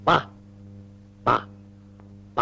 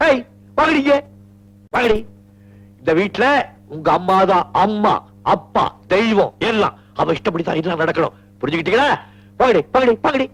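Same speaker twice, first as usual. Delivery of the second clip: high, hammed-up mock anger at the daughters; mock scolding; 4 semitones higher than usual. Father staging a fake scolding of the daughters for his wife, mock anger. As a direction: put on a fake rage for the wife's benefit. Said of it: "இது நிஜமான கோபமா இல்ல எனக்காக நடிக்கிறீங்களா?".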